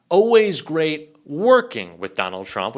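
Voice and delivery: slow, lightly gushing mock tweet; a touch of fake sincerity; mock-fawning. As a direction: play at sucking up, drawing it out.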